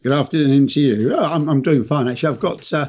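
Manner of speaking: slightly croaky from a cold; hoarse, end-of-a-cold croak. Real, not acted. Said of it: "a slightly croaky voice".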